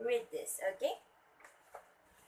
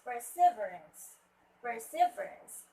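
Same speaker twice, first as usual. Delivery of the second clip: "perseverance" louder, as per-se-VE-rance; stress on third syllable; 6 dB louder than usual. Shown as a demonstration. Teacher modelling after a student reads, "perseverance" stressed on VE. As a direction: push VE in "perseverance", then fall. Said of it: "should be at the third syllable".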